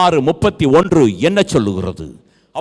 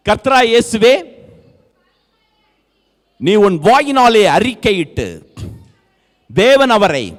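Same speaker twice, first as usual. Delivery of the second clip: raised voice, phrase by phrase with long pauses; scripture proclamation; 6 semitones higher, 4 dB louder than usual. Real, not acted. Preacher giving congregation the verse on confessing, raised proclamation. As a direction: proclaim the verse in measured pieces.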